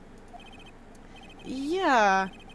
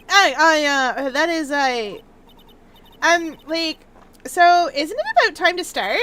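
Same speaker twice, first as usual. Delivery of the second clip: put-on flustered Valley Girl stammer; fumbling Valley Girl accent; 4 dB louder than usual. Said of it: "do a Valley Girl accent".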